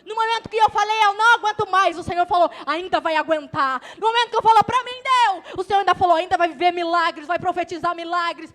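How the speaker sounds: loud, ringing sermon voice; full-force preaching. Acted. Preacher proclaiming God's answer to the congregation, full force. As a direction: preach it out to the whole church.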